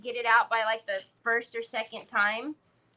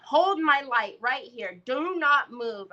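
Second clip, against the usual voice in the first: stern warning. Retold or imitated. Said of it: "I said".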